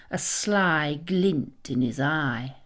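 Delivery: ordinary delivery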